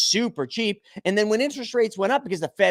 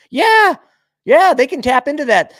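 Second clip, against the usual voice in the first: angry outburst; 7 semitones higher, 10 dB louder than usual. Real, not acted. Ranting about the banks and the Fed.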